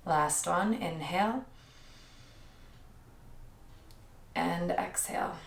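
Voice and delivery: measured yoga-teacher cueing with long pauses; yoga breathing cues. Real, not acted. Yoga teacher leading the class through inhales and exhales, calm breath cueing. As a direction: guide each breath, leaving space after every cue.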